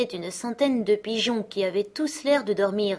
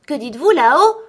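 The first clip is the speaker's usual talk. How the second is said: higher, louder call upward; 8 semitones higher, 11 dB louder than usual. Acted. Gerda calling up to the pigeons, loud and higher. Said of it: "cria Gerda".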